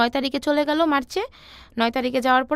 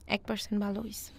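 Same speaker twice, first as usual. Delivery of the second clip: much softer, a low confessing murmur; quiet admission; 4 semitones lower, 12 dB quieter than usual. Retold or imitated. Dying boyfriend confessing the comforting lie to his partner, quiet. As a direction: let the words sink, barely voiced above a hush.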